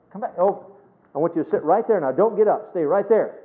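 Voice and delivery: a hint of an exasperated parent calling the kid back; mild imitated parent. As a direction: mimic a tired parent, lightly. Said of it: "heard parents say".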